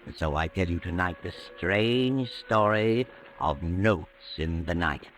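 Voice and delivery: put-on old-time radio suspense intro; radio mystery host. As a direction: draw the listener into the dark tale. Whistler's signature opening.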